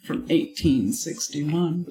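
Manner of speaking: Victorian British character; stately British accent, drawing out the year. Shown as a demonstration. Cohost dating the character, in a Victorian British accent. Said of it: "what year is this character from?".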